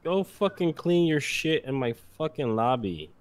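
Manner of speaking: furious slow shout; angry yelling. Acted. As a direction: bellow the order slowly. Cop yelling at raccoon.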